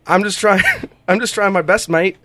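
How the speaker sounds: lightly attempted Aussie accent; amateur Australian accent. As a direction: have a half-hearted go at sounding Australian. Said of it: "I'll try to do an accent".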